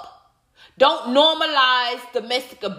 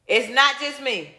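laughing. Real, not acted.

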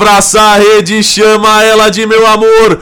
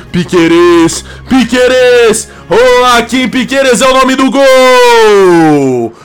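goal celebration call; 2 semitones lower than usual. Real, not acted.

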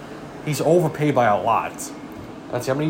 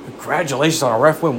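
baffled, questioning echo of the insult; incredulous repeat. Real, not acted. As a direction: throw it back in disbelief. Repeating the troll in disbelief.

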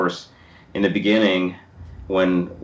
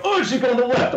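high-pitched inner voice. Retold or imitated. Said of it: "and I go".

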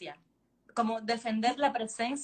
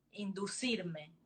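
slow, breathy whisper of one word; 2 semitones lower, 5 dB quieter, much slower than usual. Acted. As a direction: let the word fall to a whisper. Intimate line in read story. (susurrando despacio)

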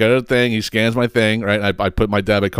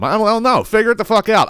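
exasperated retort; 11 semitones higher than usual. Retold or imitated.

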